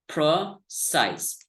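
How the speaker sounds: precise, size held and falling; stress on size. Shown as a demonstration. Teacher modelling precise for learners, stressed second syllable. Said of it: "The primary stress is on the second syllable".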